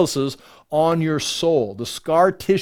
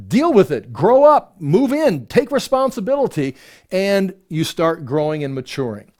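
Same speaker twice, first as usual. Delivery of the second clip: tough admonishment; 2 semitones higher than usual. Acted. Preacher voices tough admonishing commands.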